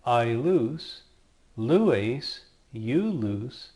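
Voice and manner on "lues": teacher modelling "lues"; careful Greek model word; Greek verb form demo. Shown as a demonstration. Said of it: "and also".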